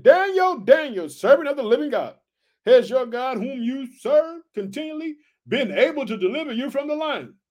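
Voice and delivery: mild lamenting king; lamenting cry. Acted. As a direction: cry out for Daniel. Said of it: "he cried out with a lamented voice".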